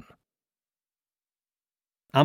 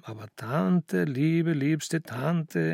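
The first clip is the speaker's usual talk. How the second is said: slow, coaxing apology; apologetic; 3 semitones higher, much slower than usual. Acted. Nephew placating his hurt aunt, apologetic. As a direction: soothe her with drawn-out endearments. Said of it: "entschuldigte sich Baal".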